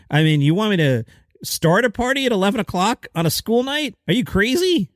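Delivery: lilting upbeat announcer voice; comedy news lilt. Acted. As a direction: sell it like a chipper radio bit. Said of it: "let me get the lilt out of my voice".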